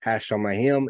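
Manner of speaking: "Hashemayim" said as hah-shah-mah-HIM; Hebrew pronunciation. Shown as a demonstration. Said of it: "would translate or pronounce as".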